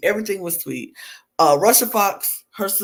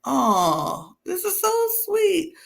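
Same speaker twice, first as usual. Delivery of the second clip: touched; 10 semitones higher, slower than usual. Retold or imitated. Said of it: "I was just like".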